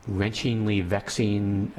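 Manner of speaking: slow, searching for the right word; halting, word-hunting delivery; groping for words. Real, not acted. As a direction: drag out each try at wrenchingly. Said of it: "I've lost, lost for words here".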